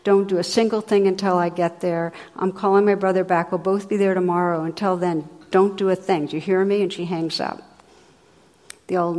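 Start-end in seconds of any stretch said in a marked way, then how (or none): 0.0-6.8 lightly acted bossy scolding; brisk, mildly forceful orders, a little louder; mock explosion. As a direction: play an exasperated daughter laying down the law. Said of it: "she explodes".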